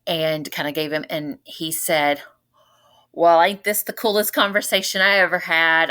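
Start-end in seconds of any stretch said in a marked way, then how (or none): 3.1-5.9 lightly imitated North Louisiana country twang; Southern accent. Dad to his newfound daughter, imitated Southern accent. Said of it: "real country Southern North Louisiana accent".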